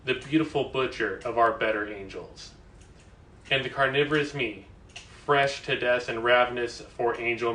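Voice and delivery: emphatic spoken-word poetry delivery; poem recital. Acted. Reader performs a late lyricist's poem for livestream viewers, emphatic recital. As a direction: recite line by line, driving the stressed words.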